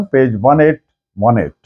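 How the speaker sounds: ordinary talk, nothing marked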